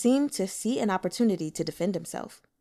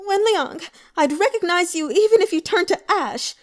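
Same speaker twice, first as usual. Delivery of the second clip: high, loud, venomous vow; hateful cry; 10 semitones higher, 8 dB louder than usual. Acted. Sister glaring hatefully at the man she blames, furious. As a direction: spit his name with hatred. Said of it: "glared at him hatefully".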